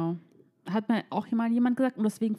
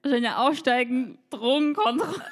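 mock police order; 4 semitones higher, 3 dB louder than usual. Friend mimics police order, joking.

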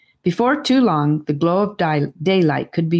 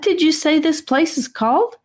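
put-on a much higher, breathless boy's voice; breathlessly; 12 semitones higher than usual. A narrator's reading. Charlie asking Rivers, breathless with wonder. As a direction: ask it in awe, out of breath. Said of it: "asked Charlie breathlessly".

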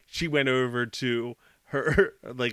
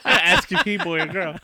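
mock Asian accent; 5 dB louder than usual. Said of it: "Was that your Asian accent?".

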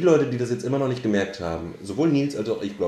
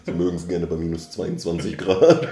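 Tierdoku-Sprecher; 3 semitones lower, 5 dB louder than usual. Pretend. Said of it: "so eine Doku ankündigen".

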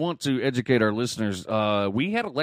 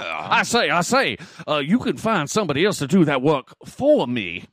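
higher, louder hammed-up Southern drawl; 5 semitones higher, 5 dB louder than usual. Nurse jokes in a broad Southern drawl, refusing work. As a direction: bluster like a Southern gentleman. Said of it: "I can do that accent a little bit too good".

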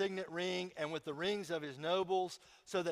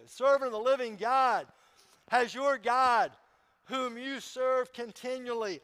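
anxious king calling down into the lions' den; anguished call; 5 semitones higher, 6 dB louder than usual. A narrator's reading. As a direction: cry out for Daniel from the den's mouth. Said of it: "he called to Daniel in an anguished voice".

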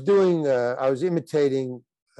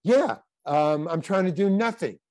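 changed attitude; 4 semitones higher than usual. Retold or imitated. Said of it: "I just changed my attitude".

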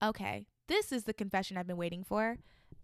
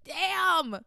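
second loud damn; 8 semitones higher, 7 dB louder than usual. Real, not acted. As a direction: let it out a second time, still stunned. Reacting to a gross confession.

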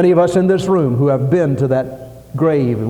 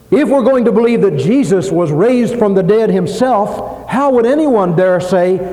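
higher-pitched pulpit challenge; forceful preaching; 5 semitones higher, 4 dB louder than usual. Real, not acted. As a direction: challenge the congregation with conviction.

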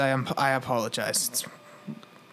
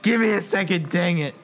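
tearful man, censored; 3 dB louder, faster than usual. Acted. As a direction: redo the weeping line with "dang". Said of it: "I'm not allowed to say "damn it".

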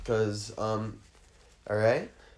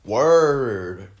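husband's reaction; 3 semitones higher, 12 dB louder than usual. Acted. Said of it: "And the husband's like".

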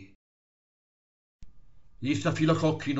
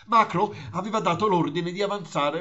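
excited live war report; breathless battlefield broadcaster; radio reporter; 3 semitones higher than usual. Pretend.

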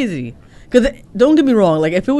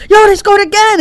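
high, louder burst of fan excitement; amazed fan; 13 semitones higher, 5 dB louder than usual. Acted. Fan seeing them score straight back, amazed. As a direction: exclaim it like you can't believe the score. Acting out fans watching scoring.

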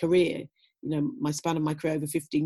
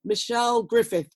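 stadium announcer; 5 semitones higher, 4 dB louder than usual. Retold or imitated. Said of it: "Then they say".

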